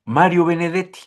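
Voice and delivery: ordinary delivery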